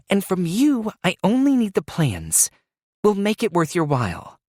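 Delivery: Alicia voice. A narrator's reading. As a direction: keep Alicia's edge, firm. Alicia continues, still tense.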